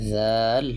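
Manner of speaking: জাল with a voiced "th" as in "this"; tongue between the teeth to begin জাল; tongue-out articulation. Shown as a demonstration. Teacher demonstrating an Arabic letter, জাল with tongue out. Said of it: "জিহ্বা বের করে উচ্চারণ করতে হবে".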